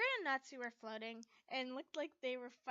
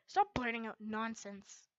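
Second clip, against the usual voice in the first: slow, louder angry rebuke; firm, slowed-down telling-off; 5 dB louder than usual. Acted. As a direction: scold her to hush. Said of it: "I stated angrily".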